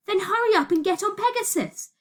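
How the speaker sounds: high, pressing order; urgent command. Acted. Urging escape from runaway train.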